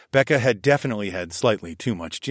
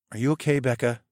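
gentle; 3 semitones higher, faster than usual. A narrator's reading. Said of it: "I asked gently".

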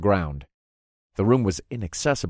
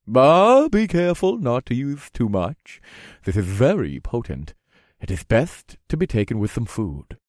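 eager merchant voice; 2 semitones higher than usual. Acted. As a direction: sell it like a huckster. Vendor character voice.

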